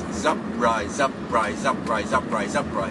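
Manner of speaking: repetitive tongue-twister chant; syllables looping without a break; five times fast. Shown as a demonstration. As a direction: run "zup ri" together in a steady loop. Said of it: "five times fast".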